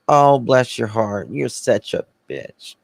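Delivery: mild mock sympathy hiding an insult; understated two-faced sweetness; Southern backhanded pity. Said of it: "Bless your heart" means".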